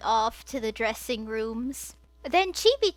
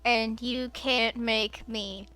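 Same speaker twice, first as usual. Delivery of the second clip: snapping; slower than usual. Acted. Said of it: "Barrett snapped".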